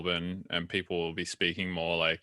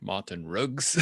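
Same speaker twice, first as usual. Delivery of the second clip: imitating a South African drug dealer's "Martin Riggs", with "Riggs" said more like "Ruggs"; "Martin Riggs" with a clipped South African "Riggs", rising at the end; South African accent; slower than usual. Mimicking the movie villain saying "Martin Riggs" in a South African accent. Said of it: "the way the, uh, the drug dealer pronounces Martin Riggs".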